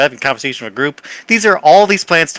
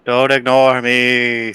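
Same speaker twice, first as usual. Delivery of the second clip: shadow voice; much slower than usual. Acted. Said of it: "says the shadow".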